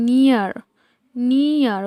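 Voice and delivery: "নিয়ার" said slightly emphatically as ni-ar, with an "i" vowel; "নিয়ার" repeated as a teaching word, opening on "ni". Shown as a demonstration. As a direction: model "নিয়ার" as ni-ar. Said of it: "নিয়ারের ক্ষেত্রেও কিন্তু same তাই".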